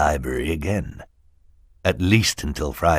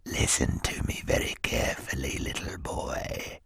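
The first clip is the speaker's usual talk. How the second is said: menacing whisper; 5 semitones lower, 9 dB quieter than usual. Acted. Henchman leans in to threaten Klaus, whispering. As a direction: hiss it inches from his face.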